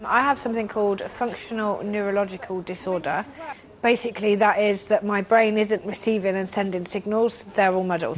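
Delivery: speaking in a Welsh accent; sudden Welsh accent from a brain disorder. Real, not acted. Woman describing her disorder in a Welsh accent. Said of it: "speaking in a Welsh accent".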